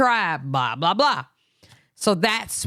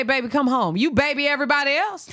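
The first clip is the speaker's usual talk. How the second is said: mock her babying tone; mock sweet talk; 8 semitones higher than usual. Complaining she babies everyone else, mock sweet higher.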